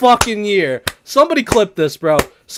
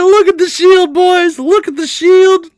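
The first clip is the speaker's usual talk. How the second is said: mock excited shout; 10 semitones higher, 6 dB louder than usual. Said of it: "Lee said".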